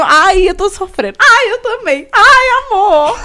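high, loud hammed-up wailing; mock crying. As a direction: imitate lovesick women wailing together. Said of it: "As três chorando de madrugada". (imitando choro sofrido, exagerado e agudo)

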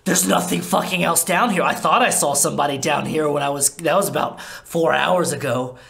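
lightly voiced starving vampire; defensive Laszlo. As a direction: justify the rat, a bit unhinged.

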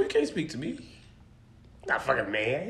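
low, slow and heavy, as if passing judgment; mock deep verdict. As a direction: drop way down and drag You're not a fucking man. Teasing friend about living alone.

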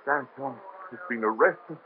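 softly and slowly, in shock; stunned, quiet. Acted. Doctor repeating the news of his friend's arrest, stunned and quiet. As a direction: let the news sink in, barely voiced.

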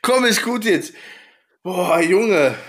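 high, loud laughing. Real, not acted. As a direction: still breaking up. Still laughing.

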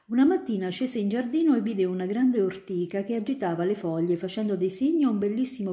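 put-on a grown-up spinning tales for a child; student eagerly convincing little Ida; storytelling student. Student continues tale.

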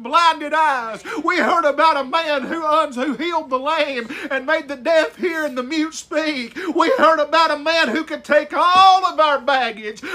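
rising fervent sermon build; fervent preacher lifting the congregation; preaching. Acted. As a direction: preach it with mounting conviction.

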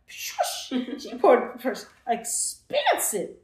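very slow, drawn out; slowed, stressed telling; slow emphatic. Real, not acted. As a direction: drag each word for weight.

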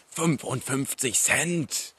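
slow, high, thrilled emphasis; excited. Real, not acted. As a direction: stretch out the bargain price. Thrilled about cheap energy drink.

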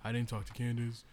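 mock dramatic whine. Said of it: "I can't be like".

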